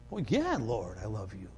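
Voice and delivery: a humbled disciple murmuring his love; hushed reply. Retold or imitated. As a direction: answer sheepishly, barely audible. Peter answers Jesus, hushed.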